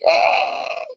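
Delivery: mock wail, hoarse open cry; imitated crying wail. Reader acting out the crying girl in the book, mock wail. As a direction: wail as if sobbing, half in jest.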